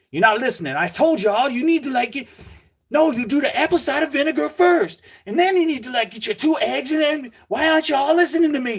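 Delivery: acted-out high-pitched, nasty, mean scolding tirade. Retelling a livestream seller telling viewers what to do: imitating a mean yelling rant. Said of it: "freaking super mean about it".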